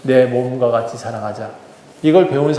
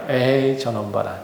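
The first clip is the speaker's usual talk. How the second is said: mildly voiced child teasing, a touch quieter; jeering child; 4 semitones lower, 4 dB quieter than usual. A boy mocking the toddler from afar, lightly taunting. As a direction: sneer under your breath like a jealous boy. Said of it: "어떤 아이 하나가 놀립니다".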